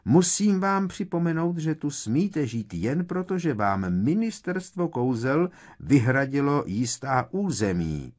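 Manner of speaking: high, loud officious rebuke; outraged shouting. A narrator's reading. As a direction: raise your voice to put them in their place. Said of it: "rozkřikla se Umbridgeová". (rozhořčený, vysoký a hlasitý křik)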